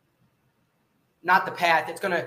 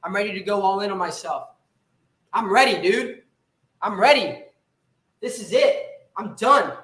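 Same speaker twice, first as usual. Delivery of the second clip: fired-up commitment; 3 semitones higher than usual. Retold or imitated. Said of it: "that you can't say".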